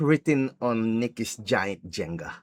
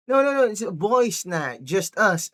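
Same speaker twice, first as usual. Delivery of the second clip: mock protesting boyfriend; 7 semitones higher than usual. Acted boyfriend hastily refusing.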